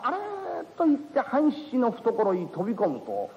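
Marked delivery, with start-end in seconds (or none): 0.0-0.2 frightened cry. A narrator's reading. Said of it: "あまりの怖さにお花があれーっと言って".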